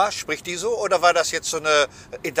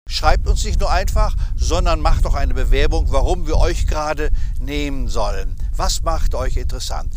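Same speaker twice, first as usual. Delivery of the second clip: promo read. Acted. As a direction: pitch the giveaway like an ad host. Promo for their giveaway.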